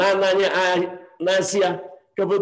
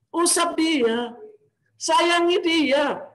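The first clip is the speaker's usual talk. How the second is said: very slow, higher-pitched appeal; tender pleading; 6 semitones higher, much slower than usual. Real, not acted. Preacher asking listeners to caress orphans, slow tender pleading. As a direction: stretch each plea out gently.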